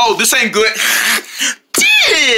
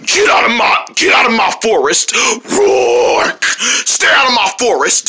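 angry bear; 2 semitones lower than usual. Acted. Bear chases travelers away.

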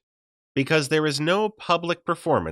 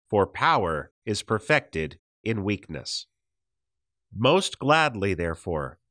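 scripture reading; 3 semitones lower than usual. Acted. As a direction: read the passage as holy words, unhurried. Reads Second Corinthians passage aloud.

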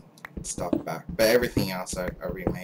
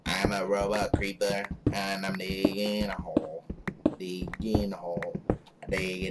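American robot voice. Pretend. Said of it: "I sound like an American".

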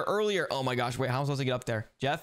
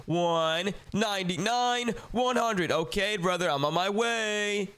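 calling out count; slower than usual. Pretend. Counts aloud, calls to hider.

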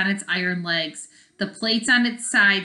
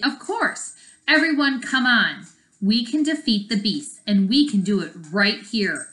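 eager call to action; rallying call; 3 semitones higher, 4 dB louder than usual. Acted. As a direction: fire up the team. Julie rallying everyone.

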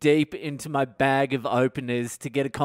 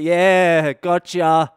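tag; 2 semitones higher, 8 dB louder, much slower than usual. Retold or imitated. Plays along to hide his fraud.

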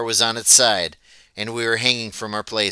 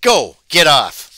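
loud snarl, higher; 4 semitones higher, 7 dB louder, slower than usual. A narrator's reading. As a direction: throw them off the streetcar with a snarl.

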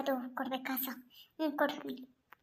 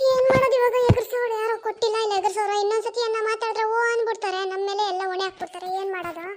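loud, indignant village woman; angry accusation; 2 semitones higher, 6 dB louder than usual. Acted. Group member accusing Girija of stealing, loud and indignant. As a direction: blame her loudly to the whole group.

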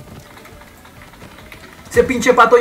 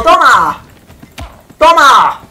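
gleeful shouting; 4 dB louder than usual. Real, not acted. Punching teammates in game.

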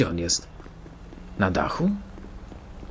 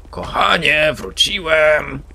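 głośno, wyżej, przeciągnięte wróciłem; udawany powrót męża do domu; radosny okrzyk; 6 semitones higher, 5 dB louder, much slower than usual. Pretend. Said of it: "i krzyczał". (mąż woła do żony po pracy, głośno i przeciągle)

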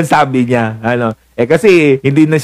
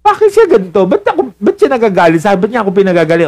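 husband's bewildered voice, higher and quicker; baffled husband thinking aloud, rushing; puzzled husband; 6 semitones higher, faster than usual. Acted. Husband wondering why wife is angry, puzzled and quick.

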